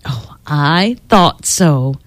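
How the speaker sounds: put-on gentle knowing old woman; with a smile. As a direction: say it smiling, pleased. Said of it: "said with a smile".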